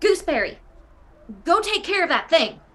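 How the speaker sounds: shouting. In a game, a player opens a pocket and calls to Gooseberry, yelling a command. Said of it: "I'm gonna yell".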